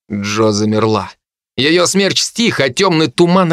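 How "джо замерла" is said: ordinary delivery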